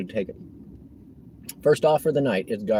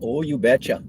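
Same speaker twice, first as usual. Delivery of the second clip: put-on Minnesota accent. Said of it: "that was too Minnesota".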